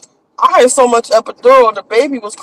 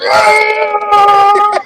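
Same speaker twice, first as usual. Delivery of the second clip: excited cry; 9 semitones higher than usual. Retold or imitated. Retelling the moment of birth.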